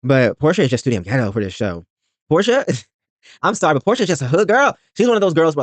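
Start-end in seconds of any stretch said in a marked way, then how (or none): 2.3-5.6 high, amused and teasing; laughing. Real, not acted.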